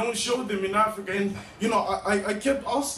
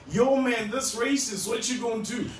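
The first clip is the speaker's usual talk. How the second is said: goading friend; 3 semitones higher than usual. Acted. Friends egging him on.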